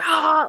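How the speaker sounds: high-pitched mock cry of anger; imitated angry outburst. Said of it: "he would get so angry".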